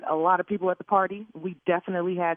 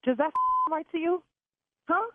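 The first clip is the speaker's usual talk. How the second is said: angry; 5 semitones higher than usual. Real, not acted. Yelling at the caterer.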